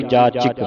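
ਜਾਚਕ with short i, "jaachik"; short i pronounced. Shown as a demonstration. Teacher modelling for a student, ਜਾਚਕ said as "jaachik". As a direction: sound an i after the ch in ਜਾਚਕ. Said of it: "ਸਿਹਾਰੀ ਉਚਾਰਨ ਹੋਵੇਗੀ".

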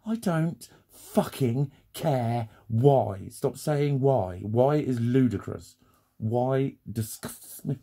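each word spelled out slowly and hard; slow emphatic rant. Real, not acted. Ranting to the audience about excuses, slow and emphatic. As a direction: drag every word out to make the point.

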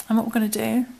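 talking with fluff in mouth; something stuck in the mouth; mouth full. Real, not acted. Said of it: "sorry, I've got fluff in my mouth".

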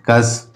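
कस softly dropped as a separate syllable; last syllable alone. Shown as a demonstration. Teacher finishing the division of discuss, last syllable alone. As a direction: say कस by itself, falling away. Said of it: "उसके बाद है डिस्कस में".

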